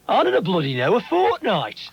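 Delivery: fortnight jumps high in gruff scorn; rude taxi man. Retold or imitated. Rude Stoke taxi driver to a caller, with a high scornful fortnight. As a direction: bark it back at the customer. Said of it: "And he said".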